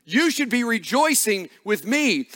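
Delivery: a hint of wounded self-pity, slowing at the end; lightly acted, asking for sympathy; self-pitying demand. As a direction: mildly voice the inner demand to be pitied. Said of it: "everything in us wants us to say".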